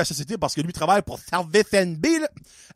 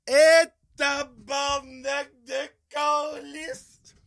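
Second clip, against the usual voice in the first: exasperated curse; 6 semitones higher, much slower than usual. Real, not acted. Outraged at clerk's reply.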